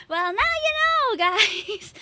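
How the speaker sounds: 싱글리시 억양; Singlish. Pretend. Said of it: "Singlish redeem".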